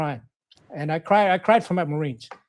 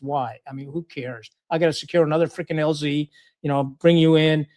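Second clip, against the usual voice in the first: lower, understated mock-weary thought; unimpressed inner grumble; 3 semitones lower than usual. Officer privately dreading a visiting commander, unimpressed. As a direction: grumble it low, as if to yourself.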